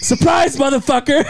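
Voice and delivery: very high, hammed-up burst-in shout; mock surprise announcement. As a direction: imitate someone gleefully springing a surprise. Uncle bursts in, retold.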